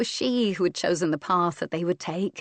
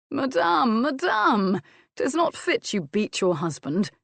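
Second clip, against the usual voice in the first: mock scolding; 5 semitones higher, 3 dB louder than usual. A narrator's reading. Husband playfully scolds wife.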